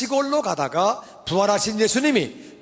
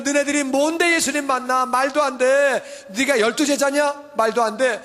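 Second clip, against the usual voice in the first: mocking scoff; 4 semitones higher than usual. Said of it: "mocking hard hearts".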